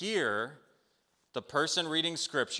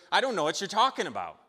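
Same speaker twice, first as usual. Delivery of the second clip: higher, louder and quick, playing dumb; feigned innocence; 7 semitones higher, 5 dB louder, faster than usual. Jebediah lying to his neighbor about the bag, feigned innocence. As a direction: brush him off innocently.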